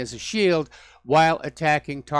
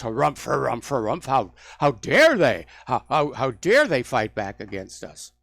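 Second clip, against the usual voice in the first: mock pompous outrage. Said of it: "the U S government goes".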